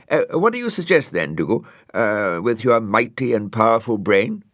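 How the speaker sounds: high, chirpy snail voice; a cheery little snail squeaking up; Brian the snail. Acted. Brian telling Dougal they have one cup, high and chirpy.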